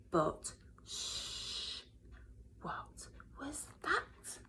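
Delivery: slow, hushed mystery whisper; hushed suspense. A narrator's reading. Narrator hushing the children before a strange sound. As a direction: draw them in with a secret.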